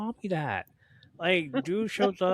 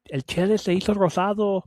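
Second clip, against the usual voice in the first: loud, quick, higher mock taunt; imitated teasing; 6 semitones higher, 6 dB louder, faster than usual. Relatives teasing the pink sunburnt cousin, mock taunting. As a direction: imitate relatives calling out a tease.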